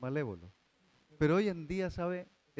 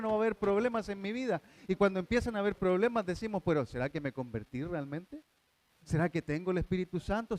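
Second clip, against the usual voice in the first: rising anxious doubt; 4 semitones higher than usual. Acted. New believer anxiously questioning his own faith. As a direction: let the worry climb question by question.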